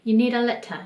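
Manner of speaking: Kiwi English, letter as leta; New Zealand accent. Shown as a demonstration. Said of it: "여러분은 알아들을 수 있는지 한번 들어보세요".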